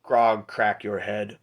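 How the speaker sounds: slow half-orc threat; Grog. Acted. Half-orc threatening a challenger, slow brute voice. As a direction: drag it out like a big brute. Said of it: "Hey, Grog, you big guy".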